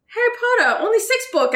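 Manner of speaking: put-on playful strong Chinese accent; imitating a Chinese accent. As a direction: mimic the doctor's Chinese accent with surprise. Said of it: "her accent's quite strong".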